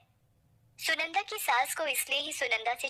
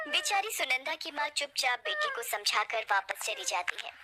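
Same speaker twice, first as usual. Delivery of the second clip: ordinary delivery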